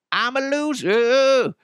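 high, slow, drawn-out mock wail; hammed-up wail. Host mocks himself for sleeping curled up, high drawn-out mock wail. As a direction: belt it like a melodramatic loser.

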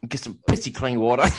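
hammed-up Australian with some South African in it; South African-tinged Australian accent. Trying the painting pitch again in a mock Australian accent. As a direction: lean into Australian, letting South African slip in. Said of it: "There was some South African that got in there".

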